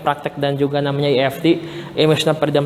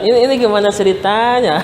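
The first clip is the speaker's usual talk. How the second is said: real laughter; 4 semitones higher than usual. Real, not acted. Host bursts out laughing.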